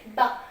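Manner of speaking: "ba" as B joined to an open A; syllable demonstration. Shown as a demonstration. Teacher showing how a vowel completes B, clear "ba". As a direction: sound out "ba" as one syllable. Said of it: "Si vous lui ajoutez un A".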